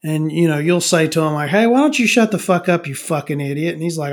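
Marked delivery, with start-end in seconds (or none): 1.5-3.8 mock angry retort. Acted bar argument.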